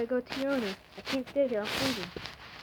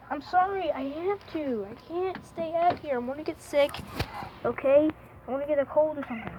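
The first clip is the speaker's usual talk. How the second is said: high, louder plea to a pet; pleading apology; 4 semitones higher, 5 dB louder than usual. Real, not acted. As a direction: plead with the cat, pitched up. Apologising to cat left out in cold.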